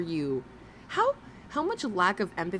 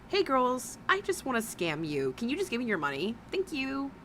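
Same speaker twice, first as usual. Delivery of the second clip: higher, fast and sugary, mocking the scam; mock sweet scammer; 5 semitones higher than usual. Reactor mocking the streamer as a sweet scammer. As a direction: sweetly ask for their money, mockingly. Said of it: "why don't you just say".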